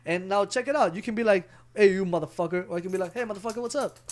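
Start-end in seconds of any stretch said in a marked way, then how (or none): 1.7-2.6 hostile. Shown as a demonstration. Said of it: "your action and emotion behind it". 3.1-4.0 friendly. Shown as a demonstration. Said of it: "your action and emotion behind it".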